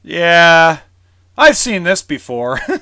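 mock jaded, seen-it-all, dry sarcasm. Speaker acts out what they say when shown the cabinets; retelling a sarcastic remark. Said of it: "Sometimes I can be a real sarcastic jerk".

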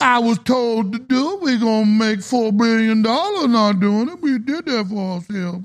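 put-on Cajun accent. Imitating a Houston executive testifying in court, in a Cajun accent. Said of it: "I do the coon ass accent".

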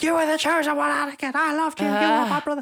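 shrill, very high-pitched, loud playground scream. Retelling reenacting Star Wars in the playground at twelve, imitating a scream. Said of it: "little 12-year-old me screaming".

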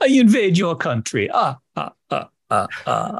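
high vampire count cackle. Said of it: "You sound like the Count".

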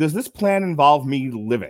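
mock annoyed, irritated male voice. Retelling a movie scene where a bleeding man raises his hand to ask, mock-annoyed. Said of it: "Because he's so annoyed with her".

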